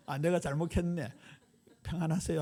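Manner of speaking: laughing through a mock apology. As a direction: giggle out a playful sorry. 꾸며낸 사과를 웃으며 연기. (웃으며 하는 장난스러운 사과)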